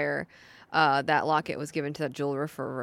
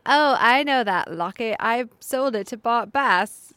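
slow, pretentious transatlantic drawl; lightly put-on posh jeweler; transatlantic accent; 5 semitones higher, 7 dB louder, slower than usual. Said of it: "Not in a British accent".

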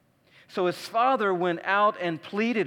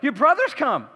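higher, bubbling with news; excited servant; 5 semitones higher, 3 dB louder than usual. Retold or imitated. Servant telling the older son, excited and higher. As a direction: gush out the good news, higher. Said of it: "the servant's excited".

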